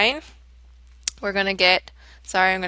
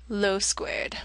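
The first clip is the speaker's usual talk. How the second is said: whispered; 8 dB quieter than usual. Shown as a demonstration. Whispered end of formula.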